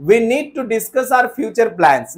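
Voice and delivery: very slow faulty sentence; slow wrong example. Shown as a demonstration. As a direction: read the wrong line slowly. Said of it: "नहीं sir, direct बोलिए".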